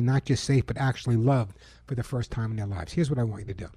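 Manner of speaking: earnest radio ad read. Acted. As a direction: pitch the charity to listeners. Reads a charity ad.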